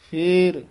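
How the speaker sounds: ਫੇਰ said alone with a brief hold; slight rest. Shown as a demonstration. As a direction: hold ਫੇਰ, then a short pause. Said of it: "ਯਮਕ ਲਾ ਕੇ ਉਚਾਰਨ".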